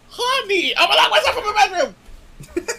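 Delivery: laughing threat. Retold or imitated. Wife threatening husband in a joke, laughing. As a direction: laugh through a playful threat. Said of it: "I'd literally be like".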